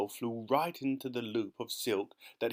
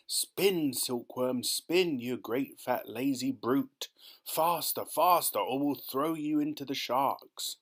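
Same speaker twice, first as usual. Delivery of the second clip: frantic shouting; 3 semitones higher, slower than usual. Acted. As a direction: drive them on like a frantic foreman.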